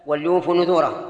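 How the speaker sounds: "وليوفوا" said wal-yufu; vowelless lam. Shown as a demonstration. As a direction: close the l in "وليوفوا" with no vowel after it. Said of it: "اللام ساكنة".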